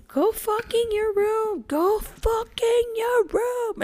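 put-on very high, slow toddler voice; Leo. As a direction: imitate an upset toddler, stretching each word. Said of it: "So Leo's upset, and he's".

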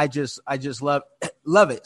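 throat catching, choking on water; choking on water, clearing throat. Real, not acted. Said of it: "over here choking on water of all things".

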